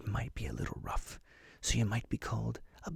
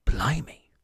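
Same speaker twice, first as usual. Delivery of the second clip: surprised exclamation; 4 semitones higher, 9 dB louder than usual. Pretend. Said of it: "You'd say".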